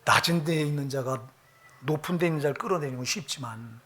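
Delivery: softly quoted pastor. Retold or imitated. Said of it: "스폴전 목사님이 말하는 거야".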